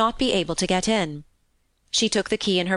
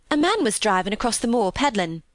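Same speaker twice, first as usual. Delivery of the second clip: lilting Yorkshire maid, happily recounting; cheerful country housemaid; 3 semitones higher than usual. Acted. Maid telling Mary of her day out, happy. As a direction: chat on as a contented country maid. Voices Martha explaining.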